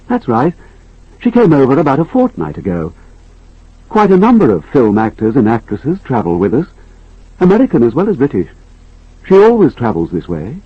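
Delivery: lightly voiced polite stewardess. Stewardess dialogue in read story.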